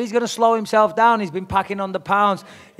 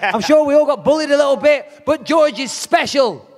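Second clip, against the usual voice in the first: higher-pitched sarcasm, slowing on the punchline; sarcastic mockery; 5 semitones higher than usual. Real, not acted. Fighter belittling his opponent's bullying story, sarcastic. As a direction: ridicule him, drawing out the last words.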